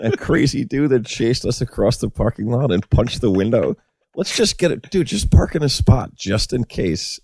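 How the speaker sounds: high put-on voice of a wary driver; mock worried guy. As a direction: imitate a nervous guy urging his buddy. Imagines the guys' wary talk.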